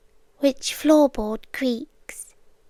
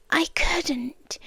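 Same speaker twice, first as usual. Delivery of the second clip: whispered; 2 semitones higher, 6 dB quieter than usual. Acted. Quiet admission.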